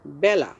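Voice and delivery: বেলা as byala, with ae; open-vowel pronunciation. Shown as a demonstration. Teacher models the word for time, open ae. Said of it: "এজন্য এটা উচ্চারণ করব".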